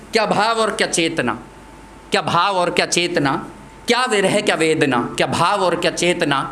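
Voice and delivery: rhymed verse in a steady beat; poem recitation. Acted. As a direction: recite in even, separated lines.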